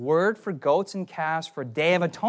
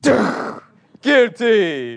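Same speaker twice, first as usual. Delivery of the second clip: loud mock verdict from a stern old judge; hammed-up British judge pronouncing guilty; judge's verdict; 5 semitones higher, 9 dB louder than usual. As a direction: bang down the sentence, louder. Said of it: "in my imagination, the judgment was".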